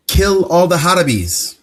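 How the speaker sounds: lightly imitated casual quote, slightly lifted; retold casual giggler. Random woman quoted in a street interview, mildly mocking imitation. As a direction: mimic an offhand remark without actually giggling. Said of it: "just said it, like, giggling".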